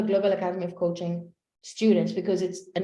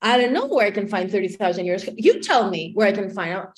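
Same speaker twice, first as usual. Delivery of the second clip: mildly exasperated, quick retort; retold irritation; annoyed retort; 2 semitones lower, 3 dB louder than usual. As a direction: throw it back, a touch irritated. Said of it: "I would get so annoyed".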